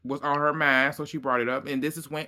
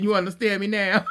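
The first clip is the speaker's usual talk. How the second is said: put-on English accent; 5 semitones higher, 4 dB louder, faster than usual. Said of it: "took on that English accent".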